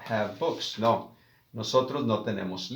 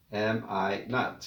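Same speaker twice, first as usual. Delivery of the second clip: slow, quieter "Am I not?"; slow soft repeat; 2 semitones lower, 3 dB quieter, slower than usual. Shown as a demonstration. Teacher to class, softly repeating the phrase. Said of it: "no hay una contracción".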